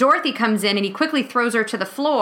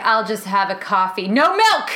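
snippy coffee order, last bit pushed up; mock fussy guy; 2 semitones lower than usual. Guy turning down pie, fussy coffee order. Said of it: "He's like".

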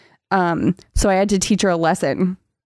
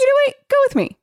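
squeaky-high playful wheedling; mock coaxing; much faster than usual. Host pitches a silly idea to the character, high mock coaxing.

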